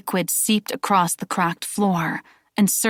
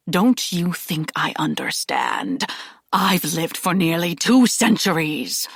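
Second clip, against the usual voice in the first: put-on angry old Aslan.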